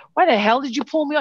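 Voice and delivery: angry, loud, high outburst. Speaker shows the wrong way to talk to a police officer, flipping out angrily. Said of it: "If you flip out".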